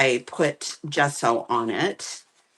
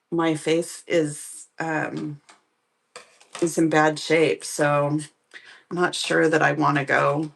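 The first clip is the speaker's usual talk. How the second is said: swollen lip. Real, not acted. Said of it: "My lip is so swollen that I can't smile".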